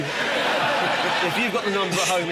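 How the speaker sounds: usual speaking voice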